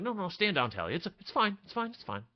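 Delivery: a squeaky show of calm; forced brave front. Acted. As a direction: fake calm while held captive. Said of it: "trying to put on a brave front".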